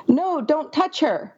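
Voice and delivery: a lightly acted warning cry; mild alarm. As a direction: reader hams up a mild alarmed yell. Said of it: "A second voice yelled in alarm".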